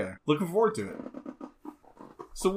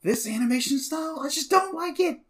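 dismissive; 10 semitones higher, 4 dB quieter than usual. Retold or imitated. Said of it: "I was like".

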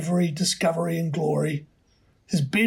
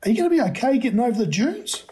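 woman's voice; 6 semitones higher, faster than usual. A narrator's reading. Woman worries about boy.

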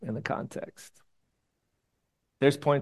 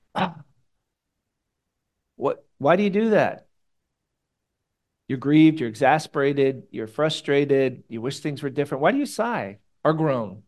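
loud, fed-up sigh of frustration; exasperated groan; 5 dB louder than usual. Retold or imitated. Jesus groaning at the people, loud and exasperated. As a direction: groan at them, worn out and grieved. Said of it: "But he goes".

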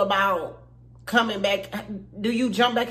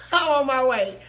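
urgent; 4 semitones higher, 4 dB louder than usual. Pretend. Mock panicked reply to grandma.

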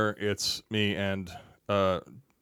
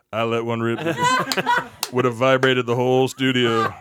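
laughing brag; 5 dB louder, slower than usual. Retold or imitated. Bragging while laughing.

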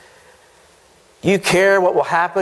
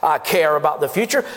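mock congregation answer. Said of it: "we would answer that".

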